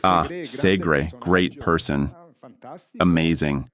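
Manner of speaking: low, dry mock praise for "Segre"; sarcastic. Real, not acted. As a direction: drop the voice, fake admiration of "Segre". Sarcastic praise after the name.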